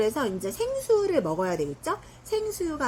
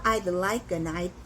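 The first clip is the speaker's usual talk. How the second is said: slow demo phrase; much slower than usual. Shown as a demonstration. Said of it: "이런 식으로 하거든요".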